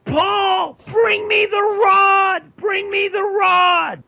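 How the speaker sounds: high, loud, slow yell to Paul; loud high urgent yell. Acted. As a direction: call across the yard for the rod. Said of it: "Paris is gonna yell".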